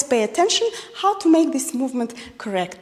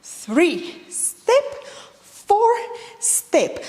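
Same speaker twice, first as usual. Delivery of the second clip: counting steps; much slower than usual. Shown as a demonstration. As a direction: call the counts over the steps. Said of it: "let's do it faster".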